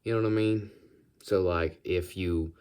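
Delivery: put-on American Southern accent; goofy, chatty Southern accent. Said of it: "the Southern accent".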